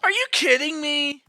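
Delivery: high, loud, slow outraged yell. Real, not acted. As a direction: bellow in disbelief. Outraged at game death.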